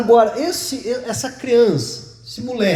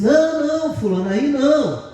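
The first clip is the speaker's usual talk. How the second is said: grandma calling; 6 semitones higher than usual. Retold or imitated. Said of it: "a avó dele disse".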